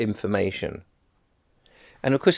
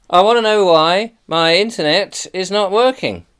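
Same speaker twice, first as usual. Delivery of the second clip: indignant complaint, pitched high; retold high-pitched, put-out customer; indignant demand; 8 semitones higher, 4 dB louder than usual. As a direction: demand an explanation, voice raised in pitch. Retelling his demand to the provider.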